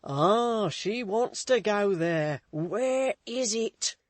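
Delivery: loud, slow growling cabman; growled. A narrator's reading. Coachman asking where the place is, loud growl. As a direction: growl it out gruffly. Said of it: "growled the coachman".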